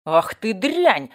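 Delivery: loud, slow, venomous cry; spiteful fury. A narrator's reading. Gossip furious at the boy who kicked her. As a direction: spit out the insult slowly. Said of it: "на струе злобы".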